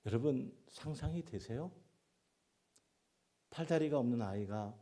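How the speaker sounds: high, loud exclamation; rousing call. Real, not acted. Preacher to congregation, loud amazed call. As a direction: stir the congregation.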